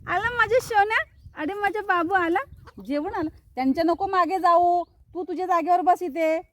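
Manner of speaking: high, loud sing-song pet talk; cooing to pets. Real, not acted. She coos loudly at her pet birds, high and doting. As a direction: coo and fuss over them like babies.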